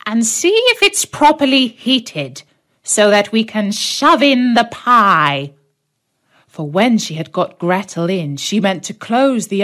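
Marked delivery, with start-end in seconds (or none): 0.0-5.5 much higher, louder crone's coax; coaxing witch. Acted. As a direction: lure the girl into the oven. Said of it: "said the witch".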